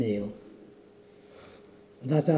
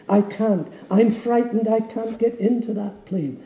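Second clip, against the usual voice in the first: rising, louder panicked pleading; frightened refusal; 3 semitones higher, 5 dB louder than usual. Acted. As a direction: beg not to board, building in fear. Terrified man refuses the plane.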